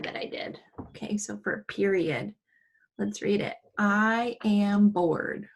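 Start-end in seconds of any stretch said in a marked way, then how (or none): 3.8-5.5 slow, flat "I am bored"; just state it, no excitement; unexcited plain statement. Shown as a demonstration. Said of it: "Nothing too exciting about the way I'm reading it".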